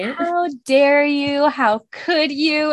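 drawn-out, hammed-up indignation from a husband; mock outraged Tamlin. Friend mocks Tamlin scolding Feyre at dinner, hammed-up outrage. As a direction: stretch each word out in fake outrage.

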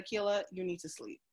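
calm doctor. Retold or imitated. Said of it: "she took one look at me and she said".

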